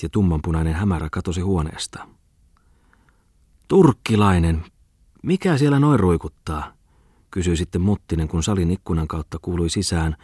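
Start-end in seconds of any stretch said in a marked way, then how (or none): 3.7-6.7 gruff question. A narrator's reading. Bookseller asks about bird cry.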